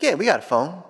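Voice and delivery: dad's matter-of-fact falling answer. Retold or imitated. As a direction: answer the kid, pitch dropping at the end.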